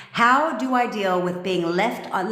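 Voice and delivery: mocking read-out. Shown as a demonstration. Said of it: "let me read it for you".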